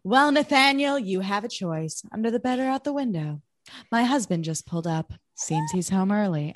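unhurried, casual imitation; no urgency. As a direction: deliver the warning with no urgency at all. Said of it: "There's no urgency at all in the way she says that".

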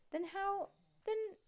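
put-on excited kid voice. Stink stammers high excitedly.

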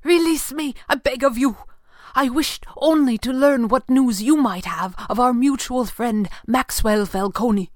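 high, loud pained begging; pinned captive begs Fenwick to let him go; crying out in pain. Acted. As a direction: beg through the pain. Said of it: "he cried".

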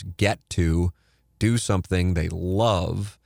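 slow, stressed get to do something they love; emphasized words. Shown as a demonstration. Host to listeners, stressing the phrase slowly. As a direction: spell it out, get to. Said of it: "I wanna emphasize the words".

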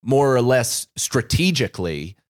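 stoned, meandering thoughts. Real, not acted. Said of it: "the edible hit perfectly".

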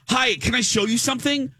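high-pitched intruding woman's voice; imitated eager stranger. Imitating the woman who popped up.

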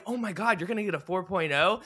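high, loud delighted disbelief; celebrating. Retold or imitated. Vince hearing of daughter's perfect grades, mock-excited and high. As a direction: imitate a parent thrilled by the news. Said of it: "like, celebrating".

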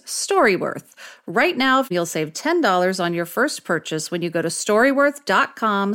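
upbeat sponsor read, slow on the brand. Acted. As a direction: sell it like a radio spot. Cohost reads sponsor ad.

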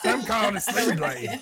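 Southern twang, half laughing; deep south accent. Acted. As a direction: play the redneck Yoda voice. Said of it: "It sounds like Redneck Yoda".

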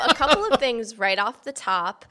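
hoarse after a festival week; rough worn-out voice; gravelly voice. Real, not acted. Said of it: "as you can hear by my gravelly voice".

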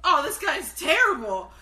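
put-on disgusted young kid. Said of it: "as a young kid, I was like".

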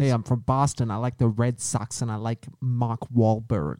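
put-on light Boston accent. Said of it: "Do your best Boston accent".

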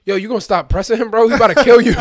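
Corey's warning, laughing; laughing quote. Retold or imitated. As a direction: blurt it out through laughter. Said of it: "And Corey was like".

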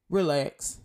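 calm, settling word; gentle reassuring relax; soothing relax. Real, not acted. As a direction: tell them to breathe. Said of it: "I'm saying it to myself too".

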